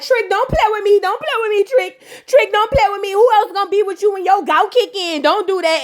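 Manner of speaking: high, sassy mock scolding; scolding Joy. Joy scolding Trick, high-pitched and sassy. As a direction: wag a finger at him all the way through.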